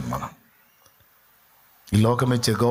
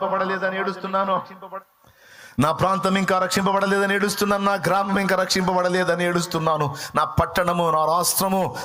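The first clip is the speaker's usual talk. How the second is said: higher-pitched, insistent litany of lament; impassioned plea; 5 semitones higher than usual. Acted. Preacher voices a believer pleading to God, impassioned lament. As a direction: plead for each place in turn, on a sustained high note.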